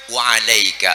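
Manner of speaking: reply coolly, no heat; calm reply. Shown as a demonstration. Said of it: "balikin aja".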